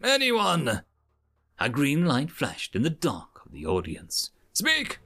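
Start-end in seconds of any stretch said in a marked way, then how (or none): 0.0-0.8 high, projected prompt; prompting instructor. A narrator's reading. Educator seeking an answer from cadets, high prompt. 4.5-5.0 high, curt order; commanding instructor. A narrator's reading. Educator ordering a student to answer, curt high command.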